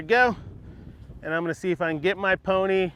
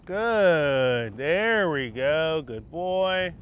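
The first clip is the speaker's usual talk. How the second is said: soothing praise; much slower than usual. Real, not acted. Soothing horse during training.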